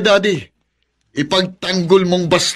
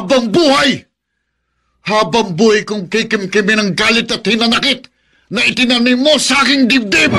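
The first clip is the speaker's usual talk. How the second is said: raised, bitter vow of lifelong grudge; bitter shout; 3 semitones higher than usual. Acted. Son shouts at father about dead mother, bitter and raised.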